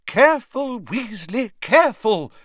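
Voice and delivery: high, loud warning cry. Acted. Professor Sprout crying out to a clumsy student. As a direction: call out the warning sharply. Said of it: "cried Professor Sprout".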